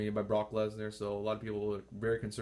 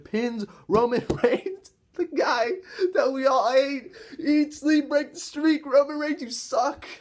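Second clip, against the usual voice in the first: much higher and louder, gloating; gleeful taunting shout; 12 semitones higher, 7 dB louder, slower than usual. Real, not acted. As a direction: jeer at the wrestler everyone hates. Fan taunting hated wrestler.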